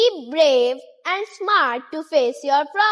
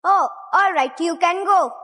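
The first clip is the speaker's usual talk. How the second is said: mild grumbling troll; 3 semitones higher than usual. Acted. Troll gives in.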